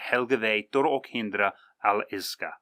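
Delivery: put-on Helgave tor ok hindra al iska recited again as Old Norse; Old Norse phrase. Shown as a demonstration. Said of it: "That's what".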